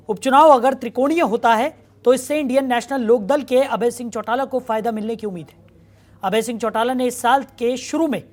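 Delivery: news read. Acted. Anchor reads news intro.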